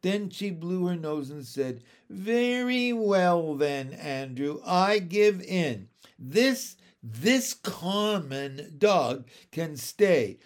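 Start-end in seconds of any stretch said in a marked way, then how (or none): 2.1-10.4 tearful giving in. A narrator's reading. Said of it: "She sobbed a moment into her handkerchief".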